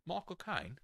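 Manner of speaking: high-pitched put-on Cockney accent; Michael Caine. Shown as a demonstration. Demonstrating the actor saying his own name, Cockney impression. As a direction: do a hammed-up Cockney film star. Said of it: "how you do a Michael Caine accent".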